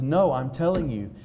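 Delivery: mildly hammed-up, insisting; emphatic insistence. Consulate man insisting it never happens, mild emphatic voice.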